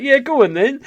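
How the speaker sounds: very high, loud retold yes; eager agreement. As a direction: jump at the dare, voice shooting up. Retelling his eager yes to challenge.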